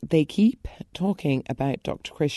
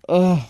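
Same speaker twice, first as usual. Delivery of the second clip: disgusted ugh; 4 dB louder than usual. Real, not acted. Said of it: "disgusted groan".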